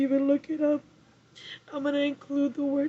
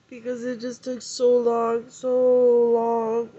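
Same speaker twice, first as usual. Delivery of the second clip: emphatic; 5 dB louder, slower than usual. Real, not acted. Emotional about long wait.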